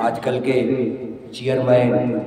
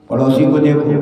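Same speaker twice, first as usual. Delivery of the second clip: louder; 6 dB louder, faster than usual. Real, not acted. Repeated phrase, soft then loud.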